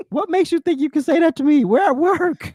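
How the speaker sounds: high, indignant, prim put-down; offended coworker voice. Retold or imitated. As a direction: play the scandalized colleague at work.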